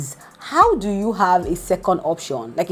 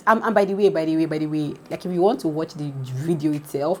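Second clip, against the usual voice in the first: ordinary delivery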